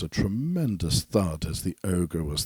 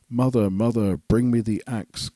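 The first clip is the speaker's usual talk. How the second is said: louder, higher urgent call; shouting; 5 semitones higher, 4 dB louder than usual. A narrator's reading. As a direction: yell for help from the beanstalk.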